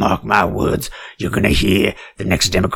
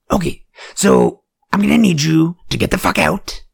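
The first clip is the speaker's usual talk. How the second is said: mock kicking out; 8 semitones higher than usual. Ordering him out.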